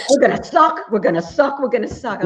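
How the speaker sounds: imitating exasperated dad. Daughter retells dad's doom about the team, imitating exasperation. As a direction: open loud, then settle with each repeat. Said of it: "He was like".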